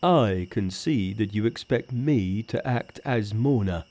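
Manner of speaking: lightly voiced Pigsy; a hint of a sulky pig spirit.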